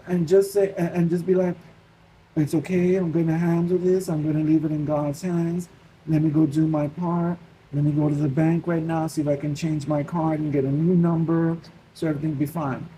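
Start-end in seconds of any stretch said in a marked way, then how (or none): 2.4-12.9 settled, measured reassurance; calm self-talk. Retold or imitated. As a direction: talk yourself down from worry. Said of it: "Be calm, take a breath".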